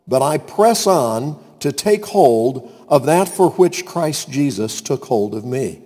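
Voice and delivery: measured, emphatic Bible reading; scripture reading. Acted. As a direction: read the passage out to the congregation. Reads scripture aloud.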